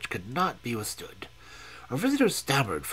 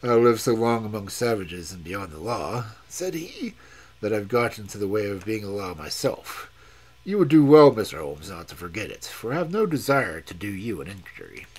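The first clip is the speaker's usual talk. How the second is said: low, menacing warning from a hardened man; lightly voiced Sterndale; 3 semitones lower, 5 dB louder than usual. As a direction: explorer warning Holmes, a low hint of menace. Sterndale threatens Holmes.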